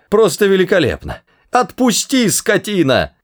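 very high, squeezed protest; strained. A narrator's reading. Arthur struggling in the guard's grip, strained and high. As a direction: protest as if held by the throat. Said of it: "хрипел Артур".

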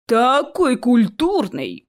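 slow, drawn-out mocking echo; mimicking mockery. A narrator's reading. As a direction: parrot the vampire girl sarcastically. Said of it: "передразнил Чес вампиршу". (передразнивая, с издёвкой)

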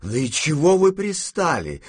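high, exasperated outburst; shouting. A narrator's reading. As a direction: raise the voice at pesterers. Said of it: "закричала бабушка". (с досадой, повысив голос)

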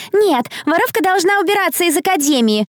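high-pitched jeering shout; spiteful demand. A narrator's reading. Bully to accused thief, spiteful high shout. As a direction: drive them out with scorn.

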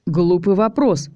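slow, scoffing retort; scoffing snort. Acted. Zak answering Tanya from his cell, scoffing. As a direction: brush off the silly question. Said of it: "фыркнул я".

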